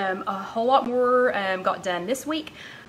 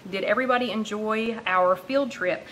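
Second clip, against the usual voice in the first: breathless from chasing the puppy; out of breath. Real, not acted. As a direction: talk while still catching breath. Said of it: "I'm still out of breath".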